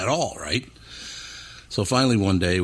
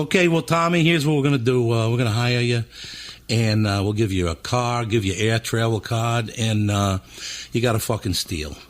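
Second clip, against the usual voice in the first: high-voiced Philly boss; 3 semitones higher than usual. Record boss hiring Tommy, imitated high voice. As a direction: pitch it up as the Philly guy. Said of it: "talk really high voice like this".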